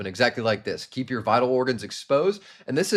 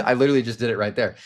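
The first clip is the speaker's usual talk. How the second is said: laughing; 4 dB louder, faster than usual. Real, not acted. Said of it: "your voice will naturally become a little bit more curious".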